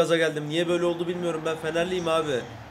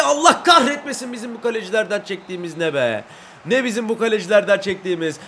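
loud, indignant outburst; angry rant; 3 semitones higher, 5 dB louder than usual. Real, not acted. Gamer raging at his goalkeepers, loud. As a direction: vent the anger at the keepers. Cursing after the miss.

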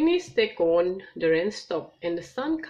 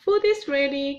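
louder and higher, calling everyone; 7 semitones higher, 5 dB louder than usual. Acted. Missus Kangaroo calls everyone to lunch, calling out. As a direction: call them to the table. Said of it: "called Missus Kangaroo".

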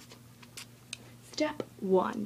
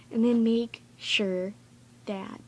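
sudden shout on "you're loud"; 10 semitones lower, 4 dB louder, slower than usual. Shown as a demonstration. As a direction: yell the word loud out. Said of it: "you're loud".

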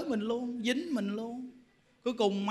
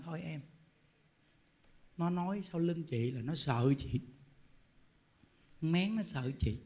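much lower and much softer; calm soothing; 5 semitones lower, 8 dB quieter than usual. Retold or imitated. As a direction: gently settle her down. Calm woman soothing the gossip. (giọng nhẹ nhàng, điềm tĩnh)

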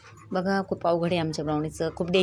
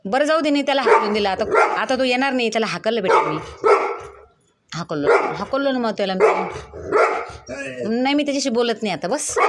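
higher, louder pet-talk reassurance; reassuring the dog; 4 semitones higher, 3 dB louder than usual. Real, not acted. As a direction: promise the jealous dog he's gone. Assuring dog the other dog left. (ब्राउनीला मोठ्या उंच आवाजात धीर देणे)

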